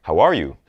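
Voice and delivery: friendly question, voice lifting; rising question tone. Shown as a demonstration. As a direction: ask "How are you" with the voice going up. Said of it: "our voice goes up at the end".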